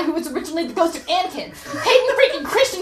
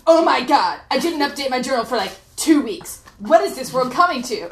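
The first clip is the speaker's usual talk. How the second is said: sarcastic. Retold or imitated. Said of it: "didn't pick up the sarcasm".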